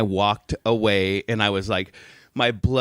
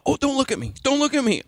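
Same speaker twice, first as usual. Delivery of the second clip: mock panic; 13 semitones higher than usual. Shopper as angry woman stomps past, retold high panic. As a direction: imitate a squeaky inner plea to stay unnoticed.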